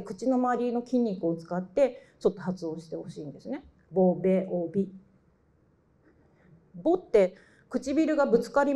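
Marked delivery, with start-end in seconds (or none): 3.9-4.9 ボベオビ with lips pressed and popping on each b; lip-forward demo. Shown as a demonstration. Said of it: "英語みたいに唇を使って".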